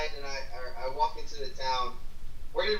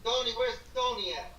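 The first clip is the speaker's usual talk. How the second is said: high-pitched call for a missing person; yelling out; 6 semitones higher than usual. Acted. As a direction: call out as if searching for Tony. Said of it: "And I, I yell out".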